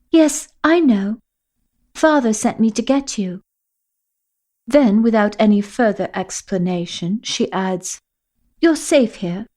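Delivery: put-on urgent girl leading the way; Sophia's voice. Sophia's voice in the story.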